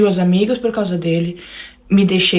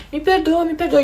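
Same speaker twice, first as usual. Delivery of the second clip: higher, whiny pleading husband; imitating crying husband; 8 semitones higher than usual. Husband at the bathroom door begging wife's forgiveness, high whiny plea. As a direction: beg forgiveness, pitched up and pleading. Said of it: "começava a chorar e falava assim".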